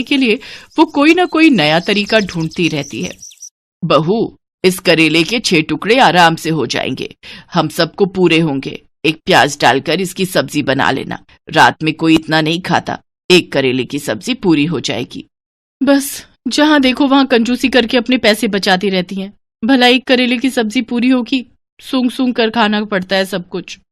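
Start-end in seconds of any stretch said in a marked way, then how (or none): 3.8-15.2 lightly voiced mother-in-law, slightly lowered; a hint of the penny-pinching family boss; stingy mother-in-law. Stingy mother-in-law rationing one bitter gourd for the family, lightly bossy. 15.8-23.8 higher-pitched daughter-in-law's inner grumble; grumbling to herself. Acted. Daughter-in-law grumbling to herself over the tiny meal, mildly resentful. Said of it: "मन ही मन क्या बुदबुदा रही है".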